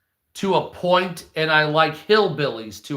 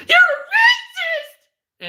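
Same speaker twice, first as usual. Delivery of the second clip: shrieking, much higher, mocking a man screaming like a girl; 4 dB louder, slower than usual. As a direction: screech it in a squealing falsetto, half laughing. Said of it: "scream like women when they're offended".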